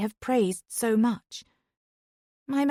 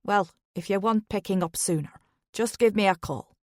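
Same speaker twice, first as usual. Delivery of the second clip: Irish lilt. Acted. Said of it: "His Irish lilt".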